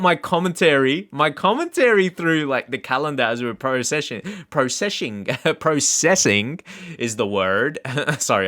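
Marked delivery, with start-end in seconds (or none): 3.5-5.2 "processing" slurred with a sh; weird mispronunciation. Real, not acted. Gamer tripping over his commentary, weird "pro-seshing". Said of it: "I make weird voices sometimes". 5.6-6.6 "processing" overdone with a crisp s; slow, exaggerated "pro-SESS-ing"; weird voice. Real, not acted. Gamer correcting his own slip, exaggerated "processing". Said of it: "I make weird voices sometimes".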